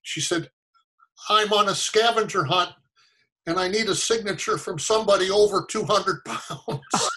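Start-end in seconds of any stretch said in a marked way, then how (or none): 1.3-7.1 higher-pitched, a hint of a young girl; little girl. Girl asking a stranger for a signature, lightly voiced child. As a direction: lightly imitate a kid's raised voice. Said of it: "eight or nine-year-old girl".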